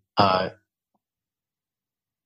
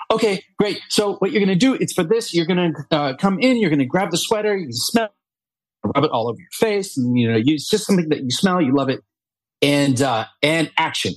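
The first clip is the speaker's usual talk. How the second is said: higher, chirpy rushed director voice; mock casting woman; 6 semitones higher than usual. Casting woman rushes the actor through the sweater ad, in a high mock voice. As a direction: rattle off the instructions pitched up.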